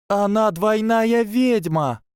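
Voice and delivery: shrieked way up high, slow, voice breaking; high voice cracking. A narrator's reading. Tracey announcing the double witch, voice cracking high. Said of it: "завопила Трейси настолько высоким голосом, что он сорвался".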